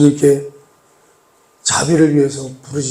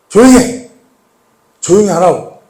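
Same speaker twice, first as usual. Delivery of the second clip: crowd scolding; 4 dB louder than usual. Acted. Crowd silencing Bartimaeus.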